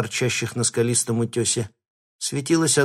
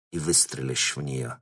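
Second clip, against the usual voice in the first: softer undertone; in a low voice; 7 semitones lower, 5 dB quieter than usual. A narrator's reading. Baron quietly instructing his hitman. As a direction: keep it down, just between us. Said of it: "вполголоса сказал он".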